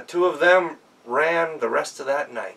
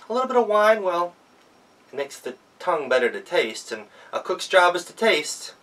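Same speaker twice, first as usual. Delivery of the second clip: higher, sly and playful; Gretel, cook, excuses her sips of wine, playfully; Gretel's excuse; 6 semitones higher, 4 dB louder than usual. Acted.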